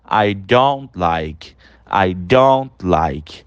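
slow contracted form. Shown as a demonstration. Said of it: "a gente poderia falar".

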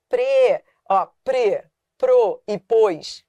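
"pre, pro e pôs" slowly with closed ê and ô; weak closed vowels. Shown as a demonstration. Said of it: "Quando são fracos".

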